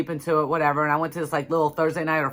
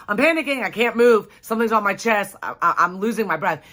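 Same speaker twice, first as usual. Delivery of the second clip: higher, urgent rush of short phrases; retold panic; 3 semitones higher than usual. Woman reliving being pinned in bed, mildly panicked. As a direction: relive the panic, easing slightly by the end. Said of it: "'cause now I'm panicking".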